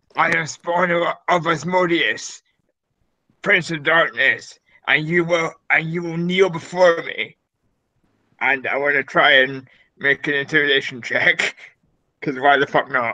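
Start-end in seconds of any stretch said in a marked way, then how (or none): 0.2-7.4 lordly, imperious, commanding delivery. A player character in the throne room demands everyone kneel, in a booming voice. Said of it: "cast thaumaturgy to make my voice boom".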